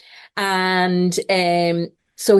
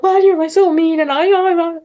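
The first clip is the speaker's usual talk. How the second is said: high, louder whining stammer; imitating a mother's indignant stammer; mock wounded whine; 12 semitones higher, 4 dB louder than usual. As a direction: splutter like a hurt mother, pitched up.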